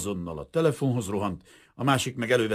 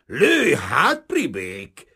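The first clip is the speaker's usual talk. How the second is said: through gritted teeth; 6 dB louder, much slower than usual. A narrator's reading. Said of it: "Csikorgatta Kazimír a fogait".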